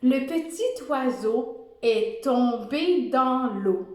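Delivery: slow dictation. Shown as a demonstration. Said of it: "La phrase aujourd'hui que tu vas écrire".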